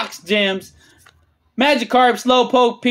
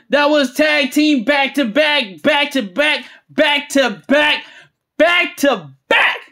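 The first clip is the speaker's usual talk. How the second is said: excited rhythmic repetition, building higher; hyped celebration; 3 semitones higher than usual. Real, not acted. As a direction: hammer out the repeats in amazement. Celebrating repeated big pulls.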